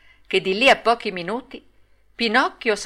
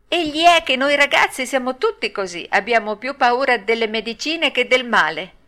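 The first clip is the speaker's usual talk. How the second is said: higher-pitched puppet making excuses; lightly voiced Pinocchio; 6 semitones higher than usual. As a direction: lightly play a boy owning up. Voices Pinocchio explaining himself.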